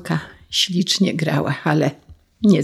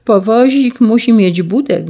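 put-on eager boy; 6 semitones higher, 5 dB louder than usual.

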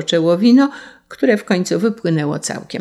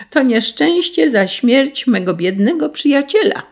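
high, emphatic declaration; righteous reproach; 8 semitones higher than usual. A narrator's reading. Sparrow blames the carter for his friend's death, righteous reproach. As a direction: lift the voice and proclaim the charge.

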